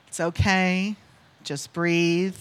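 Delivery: slow, calm reassurance. Retold or imitated. Customer with her hand on the panicking guy, very calm. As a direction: settle him down, pausing between phrases. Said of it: "And I was very calm".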